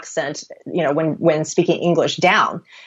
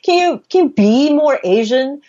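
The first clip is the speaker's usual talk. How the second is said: lightly voiced casting director, higher pitch; imitated casting request; 7 semitones higher than usual. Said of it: "they're told to".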